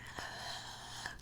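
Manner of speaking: whispered mock crying breath; imitated crying gasp. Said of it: "crying at the same time spraying it".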